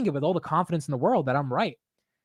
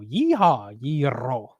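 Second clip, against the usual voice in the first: mock cowboy; 3 semitones lower, much slower than usual. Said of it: "Sounds like you're at a fucking Houston rodeo".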